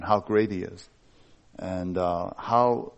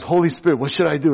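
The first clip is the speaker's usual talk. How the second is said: higher-pitched pretend fretting; mock stressing out; 5 semitones higher, 4 dB louder, faster than usual. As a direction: play a God at a loss, jokingly. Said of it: "they're not up there stressing out".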